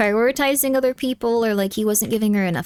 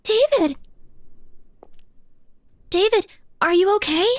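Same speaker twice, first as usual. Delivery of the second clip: calling out; 8 semitones higher than usual. Acted. Sissy calls out to David.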